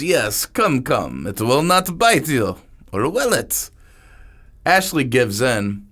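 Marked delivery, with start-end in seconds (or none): 0.0-3.7 higher, sly coaxing voice of Niku; lightly accented dealer, mock coaxing; teasing foreign dealer. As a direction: lure them in with a sly tease.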